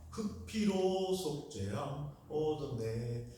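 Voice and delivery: preacher mimics how Gyeongsang folks sing 피로; Gyeongsang pronunciation. Shown as a demonstration. 경상도 발음 흉내. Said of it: "그 발음이 잘 안 된다네요".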